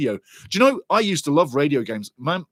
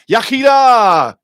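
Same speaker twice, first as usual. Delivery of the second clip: long drawn-out Welsh cheer, much louder and higher; excited shout; 8 semitones higher, 12 dB louder, much slower than usual. Real, not acted. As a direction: bellow it out with joy. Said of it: "sorry for shouting".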